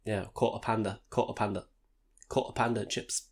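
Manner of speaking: Cockney accent. Shown as a demonstration. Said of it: "It's like Cockney".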